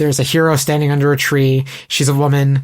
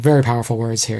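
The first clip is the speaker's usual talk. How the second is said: newscaster voice; 3 semitones lower than usual. Retold or imitated. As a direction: read it like a TV anchor. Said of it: "I sound like a newscaster being like".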